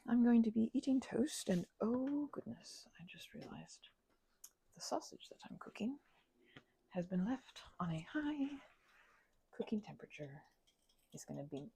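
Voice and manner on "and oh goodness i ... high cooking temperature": hushed aside to the listener; whisper. Real, not acted. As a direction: breathe the words, no voice. ASMR whisper about the sausage.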